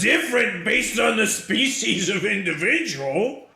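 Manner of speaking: high, loud indignant vendor voice; hammed-up salesman outrage, pitched high; protesting shrimp salesman. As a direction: protest loudly in a high put-on voice. Salesman protests a customer's accusation.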